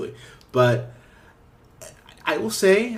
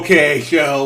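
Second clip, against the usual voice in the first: taken aback; 3 semitones higher, 11 dB louder, slower than usual. Retold or imitated. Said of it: "I was like".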